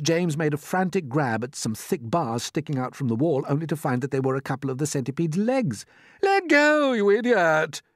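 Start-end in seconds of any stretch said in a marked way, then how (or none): 6.2-7.8 high, loud outburst; angry shout. A narrator's reading. Centipede to James grabbing his legs, angry shout. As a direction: shout it as he kicks free. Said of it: "shouted the centipede".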